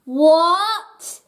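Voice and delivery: loud, high shocked outburst; stunned cry at his own reflection. A narrator's reading. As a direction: gasp out in shock. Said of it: "he cried out".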